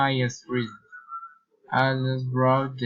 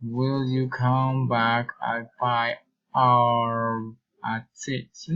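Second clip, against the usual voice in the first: "five" goes up, "six" drops away; slow either-or question, falling on "six"; rise then fall; slower than usual. Shown as a demonstration. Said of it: "reason and following intonation".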